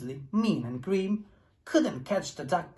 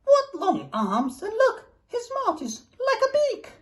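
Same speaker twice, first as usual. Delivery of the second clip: grumbled; 6 dB louder than usual. A narrator's reading. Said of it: "And she grumbled".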